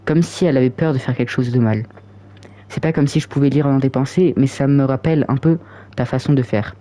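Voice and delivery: even, measured read-aloud voice; story narration. A narrator's reading. Player reads the scene of Yuri holding the book, narrating. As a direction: read the novel's text steadily.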